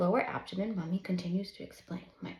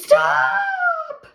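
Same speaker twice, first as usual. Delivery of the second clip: sudden high, loud stop; high loud shout of stop; yell; 15 dB louder than usual. A narrator's reading. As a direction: burst out to halt the kids. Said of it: "She almost yells at them".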